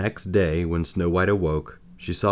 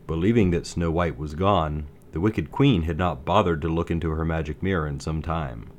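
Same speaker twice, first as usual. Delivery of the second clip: ordinary delivery, nothing marked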